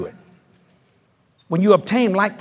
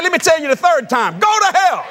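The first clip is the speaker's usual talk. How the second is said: retold retort; 11 semitones higher than usual. Preacher retelling his retort.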